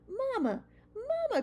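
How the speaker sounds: high, loud call to mother. Acted. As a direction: call out eagerly to mama. Child calling to mother.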